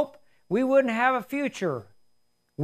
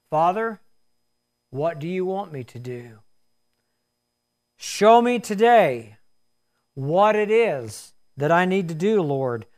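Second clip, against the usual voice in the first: prayer; 2 semitones lower than usual. Real, not acted. Leads closing prayer.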